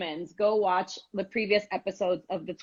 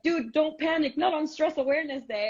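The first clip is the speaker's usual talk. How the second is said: imitating sister; 8 semitones higher than usual. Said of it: "You're like".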